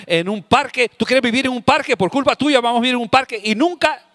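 fast, rising rant about the trash; exasperated parent escalating a scolding. Acted. Acted parent scolding over trash.

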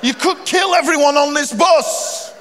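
a hint of a fussy old couple; lightly voiced scolding passenger; elderly couple. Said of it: "She go".

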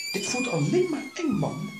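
high, loud frightened yell; scared shout. Real, not acted. Player spooked by the ghost room, shouting in fear. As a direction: shriek it out in fright.

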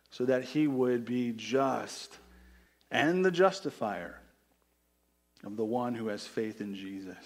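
measured, declaiming scripture read to the congregation. Acted. Preacher reading Romans aloud to his congregation, steady and declaiming.

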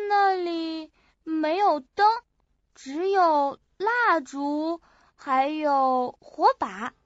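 slow, phrase by phrase from memory; halting recollection. Acted. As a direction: draw each item out while remembering. Piecing together memory of the place.

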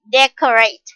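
DEcorate, first syllable stressed. Shown as a demonstration. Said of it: "decorate with the stress on the first".

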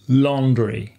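"Laundry" repeated with a clear final ee; laundry pronounced carefully. Shown as a demonstration. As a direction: model "Laundry" again clearly. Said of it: "en faisant bien attention à la prononciation piège". (« Laundry » bien articulé)

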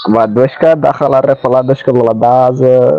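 fake gibberish language. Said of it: "What kind of language are you speaking?".

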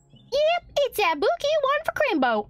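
high-pitched cowboy mom voice; fond mom. Acted. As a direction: voice a country mother sending off her kid. Voices mom giving gift.

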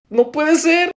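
high-pitched, loud dismay; shocked disbelief. Acted. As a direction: exclaim it in horrified denial. Acted shock at bad news.

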